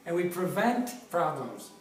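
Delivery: prevent said slowly and pressed; slow emphasis on prevent; stress on prevent. Real, not acted. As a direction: lean on the word prevent, unhurried. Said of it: "I emphasize the word prevent".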